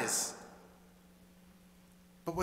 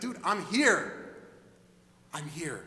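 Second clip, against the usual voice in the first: insistent; 2 semitones lower, slower than usual. Acted. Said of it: "he's like".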